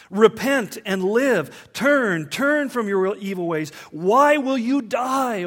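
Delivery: loud, slow, earnest plea from God; pleading. Acted. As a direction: beg the listener to turn back, drawn out. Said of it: "Here's a pleading heart".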